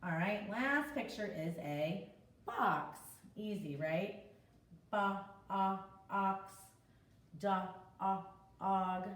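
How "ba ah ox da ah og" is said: ba, ah, ox then da, ah, og; sounding out words. Shown as a demonstration. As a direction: segment box and dog for kids. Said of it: "It's the short O".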